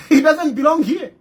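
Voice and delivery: mock the officials who send him away, laughing; mocking the government. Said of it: "The government here will say".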